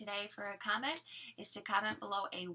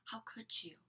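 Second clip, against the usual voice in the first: hoarse whisper; 2 semitones higher than usual. Shown as a demonstration. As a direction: rasp it under the breath. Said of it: "I guess that wasn't a whisper".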